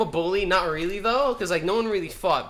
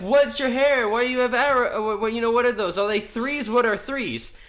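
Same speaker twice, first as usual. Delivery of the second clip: mock classmates; 5 semitones higher than usual. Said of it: "everyone's like".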